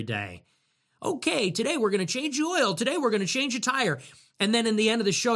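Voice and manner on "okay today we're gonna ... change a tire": mock demo host. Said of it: "this would be like if I was putting on a live demonstration".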